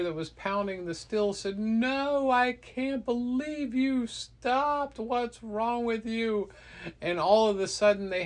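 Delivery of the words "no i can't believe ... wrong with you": high, drawn-out mock yell of disbelief; exasperated scolding. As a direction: scold a careless brother in a raised, acted voice. Brother scolds the one who let go.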